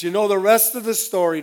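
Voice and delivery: a hint of a radio host's sign-off; lightly voiced radio announcer punchline; Paul Harvey. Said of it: "And I'm not Paul Harvey".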